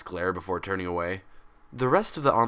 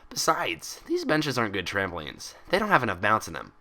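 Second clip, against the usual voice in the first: bubbly Pinkie Pie voice. Acted. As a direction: chatter it out like an excitable pony. Pinkie voice again.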